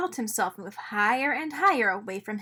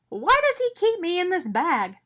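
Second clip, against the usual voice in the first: higher puzzled little voice; wondering donut; 7 semitones higher, 3 dB louder than usual. A narrator's reading. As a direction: puzzle it out to himself. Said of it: "Arnie wondered".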